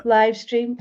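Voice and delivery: lightly done airline announcement voice; cabin crew voice. Pretend. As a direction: greet them like a BA flight attendant. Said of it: "my B A cabin crew voice".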